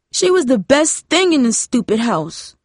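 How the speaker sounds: high, tearful wail; crying. A narrator's reading. Jamie cries over her grandmother in Darcy's arms. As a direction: grief spilling over. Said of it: "Jamie cried".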